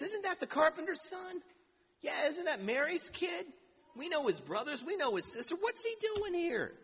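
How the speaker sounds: nosy townsfolk sneering at the carpenter's son; scoffing neighbors. Acted. Neighbors gossiping about Jesus.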